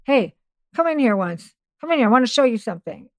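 retold yell. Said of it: "this voice yelling at me".

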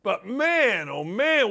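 usual speaking voice

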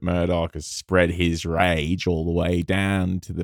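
put-on light, slowed Australian accent. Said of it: "good Australian accent".

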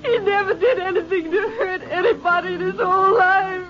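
choked-up, crying through the words; a witness fighting back tears; tearful. Acted. Shaken witness tells the ranger, tearful. Witness grieves over shot man.

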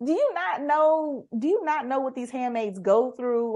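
exasperated mock rebuke aimed at Aunt Lydia; incredulous. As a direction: demand it as if she can't believe it. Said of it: "I'm like".

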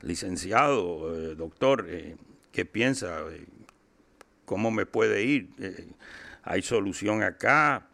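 put-on measured Spanish with a Colombian accent. Client asks his public defender about his sentence, Colombian-accented Spanish. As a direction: ask it in Colombian-style Spanish. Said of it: "I talk Spanish a bit like a Colombian".

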